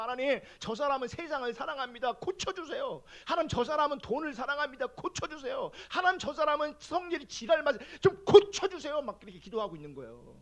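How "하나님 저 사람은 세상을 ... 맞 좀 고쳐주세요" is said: building angry prayer. Retold or imitated. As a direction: let the frustration build through each plea until the last one bursts out. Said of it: "그래서".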